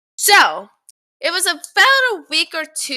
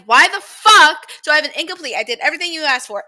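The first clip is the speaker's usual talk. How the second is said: imagined angry email; 4 dB louder, faster than usual. Retold or imitated. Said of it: "I felt like saying".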